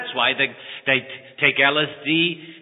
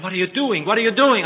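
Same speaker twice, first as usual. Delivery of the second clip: bewildered disbelief; 7 semitones higher than usual. Acted. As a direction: ask it twice, more stunned the second time. Thief baffled by kindness.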